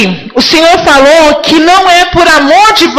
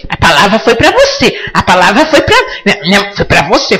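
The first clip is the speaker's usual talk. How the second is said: teasing laugh; 6 semitones lower than usual. Real, not acted. Preacher teasing the congregation that the word was for them, chuckling. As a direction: poke fun at them with a laugh.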